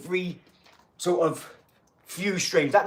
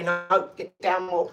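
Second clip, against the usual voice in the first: coaching instruction; slower than usual. Shown as a demonstration. Coaching a boxer on a split screen, slow and deliberate. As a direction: spell it out slowly like a coach to his boxer. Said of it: "You can say".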